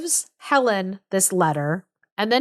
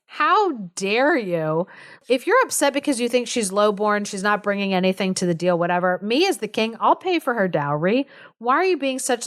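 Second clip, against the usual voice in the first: retold royal anger. King pissed with Bertram, mock anger. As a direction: scold like an imitated offended king. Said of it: "super pissed with Bertram".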